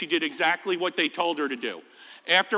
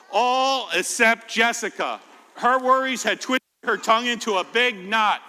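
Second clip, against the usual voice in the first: put-on reading to children. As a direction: read it gently to the kids. Storybook narration.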